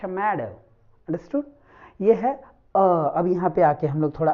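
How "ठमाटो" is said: टमाटो begun with ठ, a puffed t; aspirated t. Shown as a demonstration. Teacher demonstrating British and American t in tomato, aspirated. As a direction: puff air on the first t of टमाटो. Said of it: "ट को British और American accent में ठ कहा जाता है".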